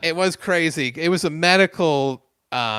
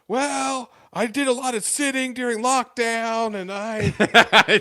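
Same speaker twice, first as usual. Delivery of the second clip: high, overloud retelling of himself; mock loud talking; 10 semitones higher, slower than usual. Patient nervously overtalking to therapist about lockdown, mock loud. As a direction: send up your own oblivious loud voice. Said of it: "I was loud as fuck being like".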